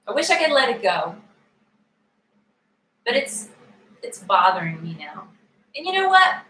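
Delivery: earnest first-person tapping statements, paced with pauses; tapping script. Acted. Tapping coach leading viewers through upsetting news, earnest and paced.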